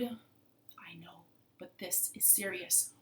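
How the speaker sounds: low, soft and grave; serious frog. Acted. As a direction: confide it gravely. Lead frog insists gravely.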